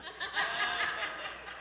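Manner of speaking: breathless wheezing laugh; real laugh. Real, not acted. Preacher laughing at his own dad joke, breathless.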